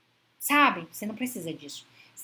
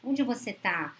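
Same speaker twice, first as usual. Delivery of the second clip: caring tone; slower than usual. Retold or imitated. Partner calling a loved one who didn't answer: gentle worried question. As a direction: ask where she is because you truly worry. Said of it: "Olha o tom da preocupação".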